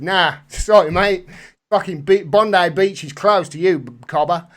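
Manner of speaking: mock Aussie brush-off; badly faked Australian accent, turning someone away. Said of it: "Worst Australian accent ever".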